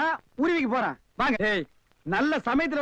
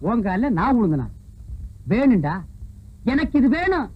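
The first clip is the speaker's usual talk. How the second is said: loud, indignant outburst; loud self-reproach; angry shout; 4 semitones lower, 4 dB louder than usual. Real, not acted. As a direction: rage at the insult. Furious at drunk's insult.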